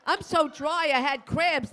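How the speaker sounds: ordinary delivery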